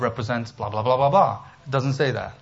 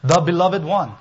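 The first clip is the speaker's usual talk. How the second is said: "The" raised and louder, leaning into "beloved one"; emphatic stress; 4 semitones higher, 5 dB louder than usual. Shown as a demonstration. Preacher giving the literal translation, emphatic stress on "The". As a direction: hit "The" hard and high, as a full word. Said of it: "would be the literal translation".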